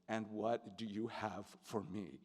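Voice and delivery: soft, gently imitated invitation; very gentle. Leading man inviting notes from a young actor, very gently. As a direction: ask it softly and with care. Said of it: "he would say very gently".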